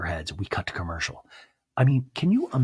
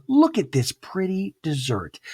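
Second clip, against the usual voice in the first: sweet fake mom voice; 8 semitones higher, slower than usual. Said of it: "Monica's mom goes".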